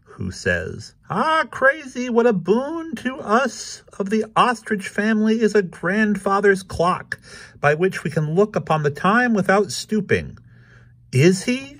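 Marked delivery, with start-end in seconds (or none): 1.1-10.4 very high-pitched ostrich voice. A narrator's reading. Walter Cephas Ostrich exclaims to Krazy, high voice. 11.1-11.8 high squeaky-pitched questioning cat; Krazy Kat. A narrator's reading. Krazy asks the dog back, very high voice.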